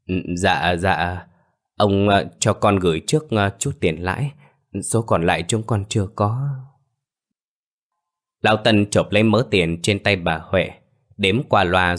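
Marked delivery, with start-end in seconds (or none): 0.1-6.5 flustered panic. Acted. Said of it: "giọng nói hốt hoảng".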